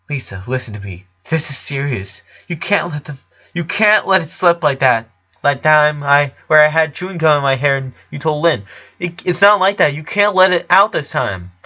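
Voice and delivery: urgent, rising warning to sister. A narrator's reading. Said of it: "he warned her".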